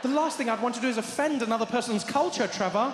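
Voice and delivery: a hint of a worried Steve; anxious friend. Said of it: "He's like".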